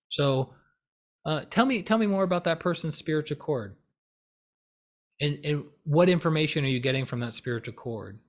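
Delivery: unruffled, curious questioning; neutral. Shown as a demonstration. Seeking to understand someone's odd claim, neutral. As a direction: ask evenly, without judgement.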